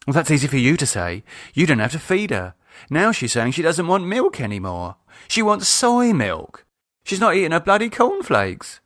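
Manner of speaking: exasperated rant; complaining wife.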